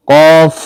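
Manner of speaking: full, back-of-throat "qawf" for কফ; heavy-throated কফ. Shown as a demonstration. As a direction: thicken the throat on কফ and hold the vowel. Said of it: "কফের উচ্চারণ একটু গলাটা ভারী করে".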